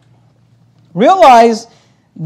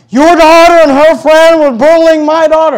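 higher, louder mock accusation; indignant accusing lady; 9 semitones higher, 9 dB louder than usual. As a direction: ham up the angry mother's complaint. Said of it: "she's like".

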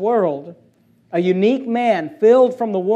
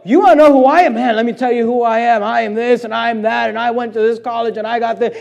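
mock bragger; 3 semitones higher, 3 dB louder than usual. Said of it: "our Facebook generation".

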